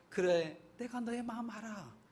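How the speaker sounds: soft, gentle voice of God consoling; tender comfort. Retold or imitated. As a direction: say it like stroking a weary child. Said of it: "쓰다듬으면서".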